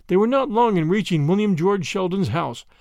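ordinary delivery

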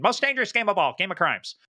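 booming high announcer intro; Derek Maltz invitation. Retold or imitated. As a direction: hype it like a show host. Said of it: "that's my Derek Maltz invitation".

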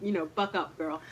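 soft, private aside, lightly acted; retold self pep talk. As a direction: quietly tell yourself to pull it together.

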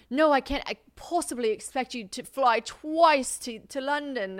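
put-on high, slow, botched British accent; hammed-up British accent, protesting politely; badly imitated London boyfriend's accent. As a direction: do a bad, drawn-out London accent. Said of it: "he says I do his accent so wrong".

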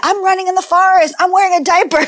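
high-pitched imitation of a little kid; toddler playing Mowgli. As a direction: narrate make-believe in a child's high voice. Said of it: "she was sort of".

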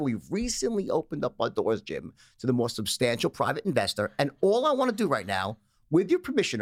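performing the sales script on request; sales pitch demo. Shown as a demonstration. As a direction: pitch it like a smooth stockbroker on the phone. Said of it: "Can you give me the inflection? Like, pretend I'm on the other line".

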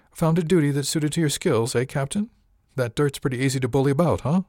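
lightly voiced sneering lout; sneering passenger. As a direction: needle him like a smug bully. Du Bois taunts the captain.

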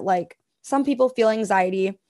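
ordinary talk

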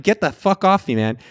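mock-frantic get off me; panicked. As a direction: shove him off in retold fear. Tripping, pushing off the devil.

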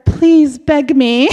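slow, laughing through the words; laughing request. Real, not acted. Teller asks partner to beg, laughing slowly. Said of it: "everybody laughs".

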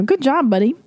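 high, singsong parent voice; praising a baby. Retold or imitated. Mother praising son for eating, high singsong praise. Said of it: "watched me praise Ellis".

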